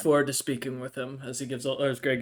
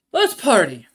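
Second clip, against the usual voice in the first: excited cheer; 6 semitones higher, 11 dB louder than usual. Acted. Flare slams cup, cheers.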